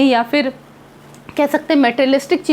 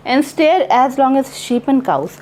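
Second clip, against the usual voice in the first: very slow, measured reading of each line; poem recitation; much slower than usual. Acted. Teacher slowly reciting a poem to her class, measured. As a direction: read the poem aloud slowly for the students.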